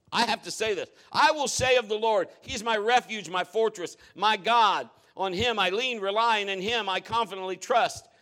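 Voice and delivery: "I will say of the Lord" read out loud and firm. Shown as a demonstration. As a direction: declare the verse with force. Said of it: "That's why I'm saying it louder".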